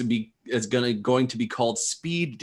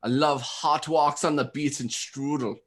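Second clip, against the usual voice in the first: lightly put-on German accent. Host listing hobbies on speed date, mock German accent. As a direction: play a mildly hammed German designer. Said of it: "I'm just talking in a German accent".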